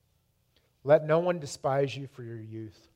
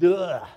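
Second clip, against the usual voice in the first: drawn-out "ugh" of disgust; disgusted groan; 3 semitones higher, 7 dB louder than usual. Retold or imitated. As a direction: groan in revulsion. Disgust at his own sin.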